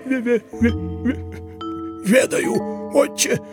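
stammering, high, wheezing voice; hoarse frightened stammer. A narrator's reading. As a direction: stutter in terror. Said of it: "просипел Еропкин". (испуганно просипеть)

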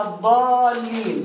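"الضالين" with the aa held long; long alif. Shown as a demonstration. Teacher quoting the example word, "الضالين" with long drawn aa. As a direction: stretch the aa of "الضالين" slowly. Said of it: "عايز أعرف مخرج الألف".

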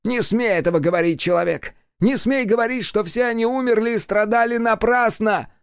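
high, furious demon voice; demon warning. A narrator's reading. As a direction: forbid it with full force. Demon forbidding.

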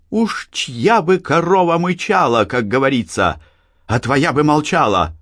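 high, biting retort; sting her with a proverb; caustic. A narrator's reading. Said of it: "едко сказала Анна". (едко)

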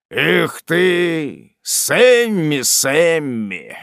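put-on mild reproach from an old father; a lightly voiced, reproachful sigh over a son. A narrator's reading. Father reproaching his son Sam, mildly reproachful. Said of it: "тоном упрёка".

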